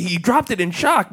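usual speaking voice

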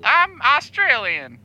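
slow, put-on Australian accent. Caller proving he is from Australia, Australian accent. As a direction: claim it slowly in an Australian accent. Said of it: "Can't you tell my Australian accent?".

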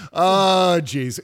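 "oh, jeez" in an upper Midwest accent. Shown as a demonstration. Host shows off the accent, upper Midwest accent. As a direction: lay on a touch of upper Midwest. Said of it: "that's my upper Midwest accent".

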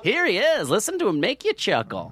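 light mock TV announcer. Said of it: "and then it's just like".

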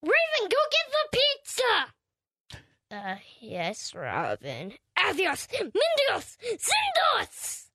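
lightly voiced cartoon Raven; a hint of a playful character voice. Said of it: "do you wanna hear my Raven voice".

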